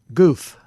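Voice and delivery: goof with a loud fricative f; sounded-out Hebrew word. Shown as a demonstration. Teacher demonstrating to students, loudly sounding out goof. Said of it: "fricative sound because".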